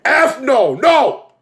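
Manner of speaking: very high cry of refusal; reenacted outrage. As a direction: shriek it in mock horror. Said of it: "I'm like".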